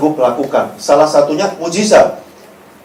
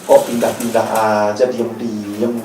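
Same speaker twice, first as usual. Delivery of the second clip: grumbling paraphrase; 9 semitones lower, 5 dB quieter than usual. Acted. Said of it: "dalam bahasa lain gini".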